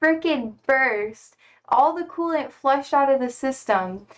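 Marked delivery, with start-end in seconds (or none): 0.0-1.4 higher, emphatic storytelling; dramatic build-up. Real, not acted. Streamer telling chat how the car broke, dramatic emphasis. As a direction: build up to the punchline. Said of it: "building up the story climax".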